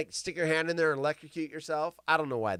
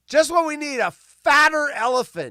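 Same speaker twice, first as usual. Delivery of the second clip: mock outrage; 9 semitones higher, 9 dB louder than usual. Mock outrage at fat elephants.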